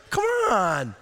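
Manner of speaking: half-shouting, hurry him out; urgent call. Retold or imitated.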